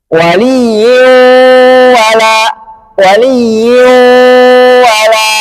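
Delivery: waliyyu wala said with the nose held shut; nose pinched. Shown as a demonstration. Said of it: "hidung saya tutup, bacanya tidak sempurna".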